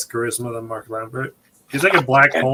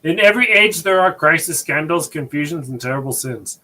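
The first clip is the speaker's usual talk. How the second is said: mock pious voice. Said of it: "you should do his accent".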